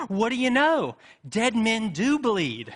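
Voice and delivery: high, loud, laughing through the words; laughing punchline. Retold or imitated. Joke patient laughing as he sees his own blood. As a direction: crack up while delivering the punchline. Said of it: "starts laughing and nodding".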